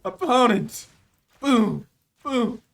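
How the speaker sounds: high, loud bursts; excited shouting. Real, not acted. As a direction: fire off each exclamation like an explosion. Exclaiming over big game play.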